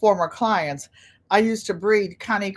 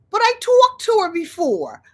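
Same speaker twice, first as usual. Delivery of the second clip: high, surprised Katie voice, a bit louder; mock surprise; 11 semitones higher, 5 dB louder than usual. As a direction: play Katie caught off guard.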